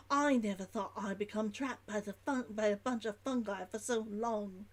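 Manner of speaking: put-on dropped H's, Old London merchant's log; Old London accent. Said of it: "sound much more like Old London".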